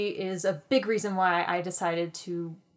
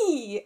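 excited squeal; 2 semitones higher than usual. Real, not acted. Excited squeal before telling her history.

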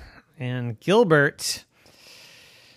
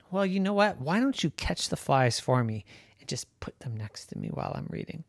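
whispering; 6 dB quieter, faster than usual. Acted. Gilbert proposes lazy plan.

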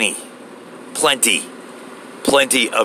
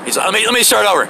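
bumbling applicant; 4 semitones higher, slower than usual. Retold or imitated. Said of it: "He goes".

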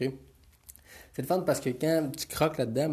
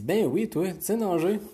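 surprised instructor; 7 semitones higher, 3 dB louder than usual. Acted. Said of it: "il dit".

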